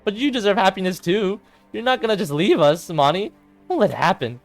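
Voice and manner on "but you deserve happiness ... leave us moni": high, urgent plea; pleading insistence. Acted. Sayori begs her friend not to leave, urgent pleading. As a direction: implore a friend in a raised voice.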